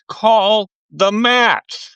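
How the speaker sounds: slow, loud, exasperated demand; testy outburst. Real, not acted. Podcaster yelling at the commentary team, really exasperated. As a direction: drag it out, fed up with the commentators. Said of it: "I guess I'm a little testy tonight".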